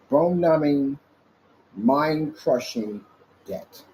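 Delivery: slow stretched words, trailing to a hush; menacing emphasis. Real, not acted. Vlogger threatening online critics with slow heavy emphasis. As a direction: draw out mind-crushing slowly.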